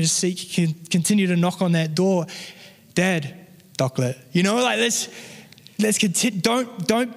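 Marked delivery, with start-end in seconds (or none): 2.9-4.2 lightly voiced small boy, low on "chocolate"; toddler son. Preacher recalling his son's asking, lightly imitated toddler. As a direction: callback in baby talk, "doclet" for chocolate. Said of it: "that's how he sounds".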